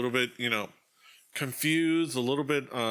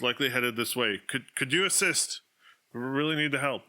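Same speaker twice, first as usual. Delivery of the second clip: slightly raised, appealing official voice; lightly voiced Burgermeister; 3 semitones higher than usual. Burgermeister asking strangers to assist, lightly acted appeal. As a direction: lightly play a town official seeking help. Game master plays the Burgermeister.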